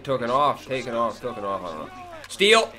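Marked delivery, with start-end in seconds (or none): 2.3-2.7 excited call. Real, not acted. Reacting live to a steal.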